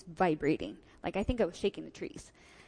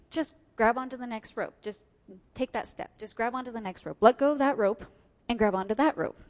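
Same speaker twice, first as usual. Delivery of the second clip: coaching calls; 3 semitones higher, 4 dB louder than usual. Retold or imitated. Course helper calls out instructions to frightened climber, mock urgent. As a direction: push her along, getting louder each time.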